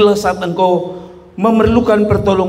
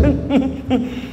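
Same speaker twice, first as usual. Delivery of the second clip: soft, raised-pitch knowing snicker; menacing smile laugh; 7 semitones higher, 4 dB quieter than usual. Retold or imitated. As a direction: imitate a mother's ominous chuckle. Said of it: "Dia tambah senyum, tambah lebar".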